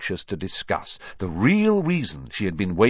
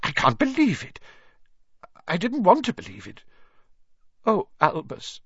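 high, stricken, stammering disbelief; gasped; 13 semitones higher than usual. A narrator's reading. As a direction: gasp out shock and grief, pitched high.

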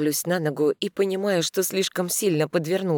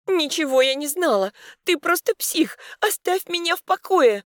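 shouting; 13 semitones higher than usual. A narrator's reading. Heroine screams at Mikhail from the car. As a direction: scream at him to leave her alone. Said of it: "кричу".

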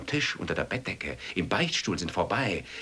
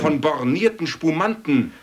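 outraged shout; 11 semitones higher, 10 dB louder than usual. Acted. Shouted tirade.

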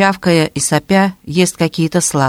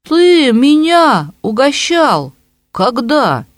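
incredulous; 9 semitones higher, much slower than usual. A narrator's reading. Arap suddenly perks up.

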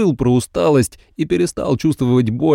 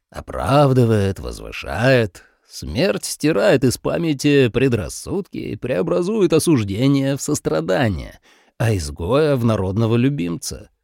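cold king voice. Acted.

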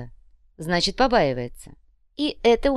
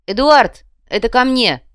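loud, raised call across the room; 6 semitones higher, 10 dB louder than usual. Acted. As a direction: call out loudly to summon him. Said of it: "громко произнёс Ваня".

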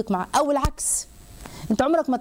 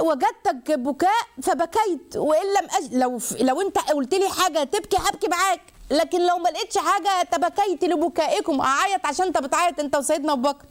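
عمر بن الخطاب answering; 6 semitones higher than usual. Retold or imitated. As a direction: speak up high as the devoted companion. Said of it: "انتوا عارفين سيدنا عمر بقى". (صوت عالٍ صادق على لسان عمر)

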